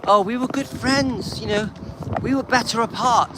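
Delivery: lightly sending up her sweet tone; hint of a mocking ex-wife quote; mocking Priscilla. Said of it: "she says".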